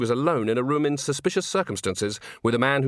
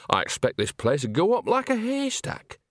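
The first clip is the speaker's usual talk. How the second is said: musing character voice; 8 semitones higher than usual. A narrator's reading. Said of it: "she said quietly".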